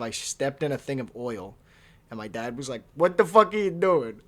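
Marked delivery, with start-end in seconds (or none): 2.9-4.2 louder, higher angry dad bellow; imitated dad yelling. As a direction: bark it like a furious father. Dad catches him huffing gas.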